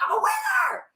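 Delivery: high breathless whisper of glee; whispered mock triumph. Winning twenty dollars on penny slots, gleeful whisper. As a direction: whisper it like you just hit the jackpot. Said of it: "you're like".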